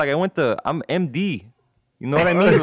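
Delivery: Mexican-American cholo bragging; cholo accent. Acted. Cholo doctor claiming to be an MD, Mexican-American accent. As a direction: vouch for yourself in a cholo lilt. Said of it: "do that call in a cholo".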